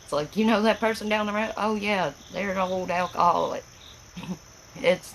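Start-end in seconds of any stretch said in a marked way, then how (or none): 0.4-3.6 gossipy neighbour voice. Retold or imitated. Mock neighbour gossip quote.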